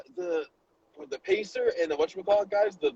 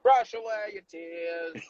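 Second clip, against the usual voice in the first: Mary Poppins voice; much slower than usual. Retold or imitated. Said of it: "I start getting Mary Poppins".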